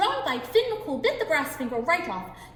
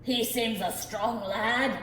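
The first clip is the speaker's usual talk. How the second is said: a little worried; much slower than usual. Acted. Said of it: "getting a little worried".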